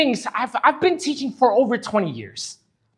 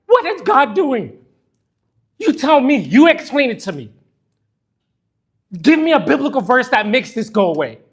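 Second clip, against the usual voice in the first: louder, pressing, demanding an answer; angry challenge; 2 semitones higher, 5 dB louder than usual. Real, not acted. Grieving father demanding the congregation explain, loud angry challenge. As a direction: throw the question at them, raised and hurt.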